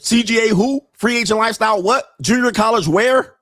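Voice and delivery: mock-clueless questions, pitched high; feigned ignorance. Coach mimicking rivals who deny him credit, feigned ignorance. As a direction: play dumb in a high, incredulous voice. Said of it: "act like I didn't say it".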